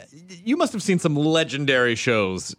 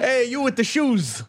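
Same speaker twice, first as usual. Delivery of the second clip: higher insult comic heckling a crowd; Don Rickles; 9 semitones higher than usual. Retold or imitated. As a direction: jab at the crowd like an old roast comic. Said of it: "That was like Rickles".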